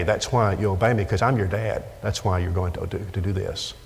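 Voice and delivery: put-on low, quiet, firm father to child; a dad quietly telling his child why to obey. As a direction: lay down the law softly, low and steady. Preacher voices firm dad to child.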